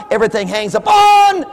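preacher's emphatic shout; shouted correction. Real, not acted. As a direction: hammer the word upon. Preaching climax.

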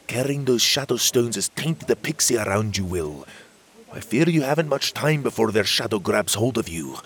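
a touch of Scottish-tinged fairy voice; elder fairy fearing for the boy; wise fairy warning. Acted. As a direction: warn him kindly but gravely. Magborn warns Will of taint.

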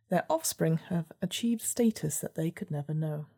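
measured gamebook narrator; story narration. A narrator's reading. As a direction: read it like a storybook.

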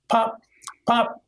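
small popping mouth sound; cap gun pop. Retold or imitated. Officer imitating his partner's gunfire, small cap gun pops. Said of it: "it sounds like a cap gun".

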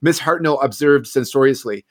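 reads the passage aloud with lightly voiced gossiping ladies; story reading. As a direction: tell it like a cosy village mystery, letting the two spinsters chatter.

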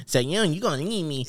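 lightly voiced girlfriend; half-hearted girl impression. Shown as a demonstration. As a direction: attempt a girl voice, barely changed. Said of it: "This one, this one girl voice".

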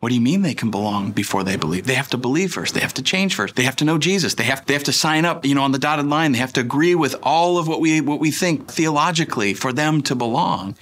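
mildly upset religious objector, piling up demands; lightly acted indignation; imitating upset objectors. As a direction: protest insistently, one condition after another. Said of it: "get very upset by that statement".

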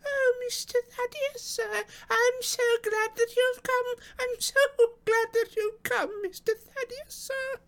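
very high, slow, quavering relief; rejoicing old woman. A narrator's reading. Housekeeper welcomes Mister Thaddeus at the door, high rejoicing voice. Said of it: "reiterate rejoicings".

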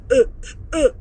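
reliving the sobs, breaking off high and loud; choked sobbing catch in the voice; retold crying. Recalling crying on the throne at her party, sobbing. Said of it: "crying my body off".

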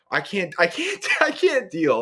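high, laughing protest that breaks up; laughing overwhelm. Retold or imitated. Patient to doctor before the lancing, high laughing protest. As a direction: laugh through it, completely overwhelmed.

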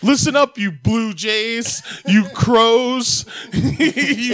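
mock rallying address. Mock speech addressing the birds.

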